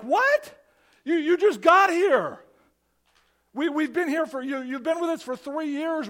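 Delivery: high, loud, panicky disbelief; freaked out. Retold or imitated. Disciples panicking that Jesus is leaving, high loud disbelief. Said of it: "They freaked out. They lost it. They're like".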